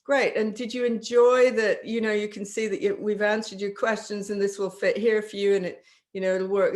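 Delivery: eager pitch to the client; upbeat sales enthusiasm. Shown as a demonstration. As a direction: sell it with eager energy. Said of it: "salesperson demo continues".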